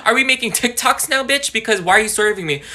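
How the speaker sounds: loud, high indignant snap; calling out the crush at the club; mock outraged yell. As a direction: call him out, high and loud. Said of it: "I'm like".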